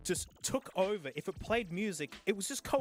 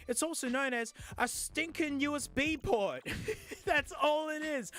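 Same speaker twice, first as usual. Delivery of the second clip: laughing scoff; 7 semitones higher than usual. Real, not acted. Mocking the packaging, laughing.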